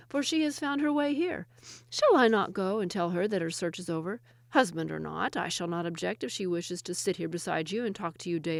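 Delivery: string him along slyly; sly Ahmad. Acted. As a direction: woodcutter tricking the jinni with his wife. Ahmad's trick speech to jinni.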